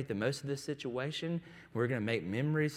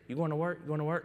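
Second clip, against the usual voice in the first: put-on anxious little boy; 4 semitones higher, faster than usual. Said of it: "needs that constant reassurance".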